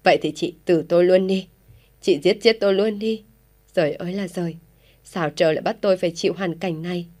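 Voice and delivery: distraught outburst. Acted. Mother in despair over her daughter's love, agitated outcry. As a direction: cry out in despair at your fate. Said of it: "thấy mẹ quá kích động".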